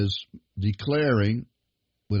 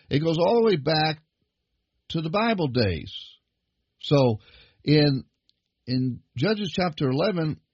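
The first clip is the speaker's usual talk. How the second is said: higher, rising pulpit fervour; preaching; 5 semitones higher than usual. Acted. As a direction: preach it, building toward the point. Preacher builds to full force.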